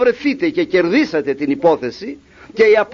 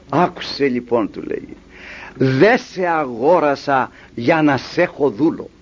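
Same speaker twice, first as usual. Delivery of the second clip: lower, slow and deliberate; solemn master; 5 semitones lower than usual. Acted. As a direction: lay it out slowly and gravely. Master reveals his kind intent.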